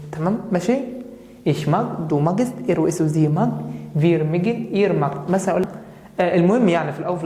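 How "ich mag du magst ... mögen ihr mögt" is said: slow recital. Shown as a demonstration. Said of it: "teacher recites the full paradigm".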